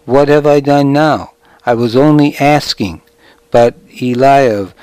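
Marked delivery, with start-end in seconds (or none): 0.0-3.0 whiny little voice. Retold or imitated. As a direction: whine it like a sulky boy. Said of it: "I can still hear his whiny little voice".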